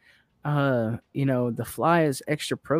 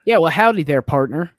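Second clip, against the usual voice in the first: mock Texan accent; 6 dB louder than usual. Customer mocking the Texan manager's accent, a loud mock Texan twang. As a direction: tease him with a cowboy Texan howdy. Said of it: "You make fun of my accent?".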